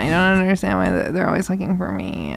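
creaky vocal fry, bored diva. Acted. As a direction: drag it out with heavy vocal fry. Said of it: "just really lean into the vocal fry".

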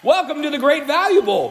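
big circus ringmaster announcement. Acted. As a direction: call out like a ringmaster. Grand bowl game opening announcement.

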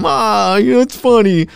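a hint of a doting parent laughing it off; mock indulgent voice. Mocking people who excuse his cursing.

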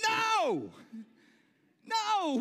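high loud refusal; emphatic no. Real, not acted. Preacher rejecting the mocking of the baby, loud emphatic no. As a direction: shout it down, firmly.

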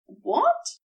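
sudden high startled question; jolted by surprise. A narrator's reading. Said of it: "Aziraphale blinked, startled".

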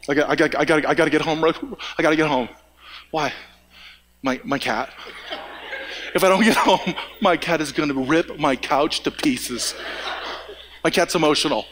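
imitating a panicky cat owner; mock cat owner. Mocking anxious cat owner.

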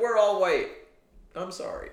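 high-pitched awkward protest; mock pleading. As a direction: plead your case in a high voice. Acts an awkward apology.

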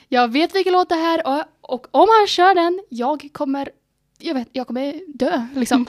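loud, giddy anticipation, slowing down; excited. Retold or imitated. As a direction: relive the thrill of knowing the song. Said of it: "Och jag bara".

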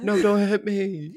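high, drawn-out mock British wail; slow, hammed-up British whine; British accent. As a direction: plead in a put-on British accent. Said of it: "British people just".

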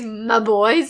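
imitated weighty stress on "my boys"; emphasis on MY BOYS. Co-host quoting a movie guy's pet phrase, emphasis on MY BOYS. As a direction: lean on "my boys" as a quoted catchphrase. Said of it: "The emphasis is that is put on the phrase".

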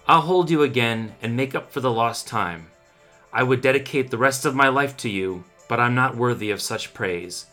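solemn, mournful poem delivery; poem reading. Acted. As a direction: recite it like a grieving lover. Dramatic poem reading over music.

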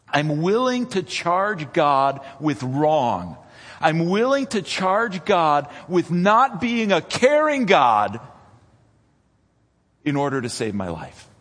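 voicing the disciples. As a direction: speak as a desperate man. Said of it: "They are willing to sin".

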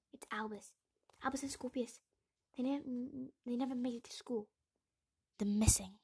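urgent, distressed announcement; alarmed news. A narrator's reading. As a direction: break bad news in rising panic. Harry breaks news children are missing.

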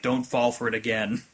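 lightly voiced sober inner voice; serious voice. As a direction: warn quietly, playing the sensible one. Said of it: "your serious voice is like".

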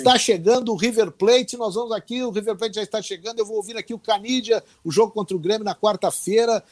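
lightly replaying an eager first live report; retold radio report. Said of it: "eu não me identifiquei".

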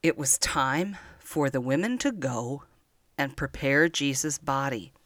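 put-on storytelling to small children, unhurried and tender; gentle story narration. Grandma telling Easter story to children, gentle storytelling. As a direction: read it like a grandma at bedtime.

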